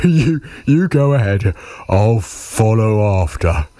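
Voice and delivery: a hint of a chuckling monster, slowing down; lightly voiced amused monster. Gruffalo lets mouse lead, lightly voiced amused monster.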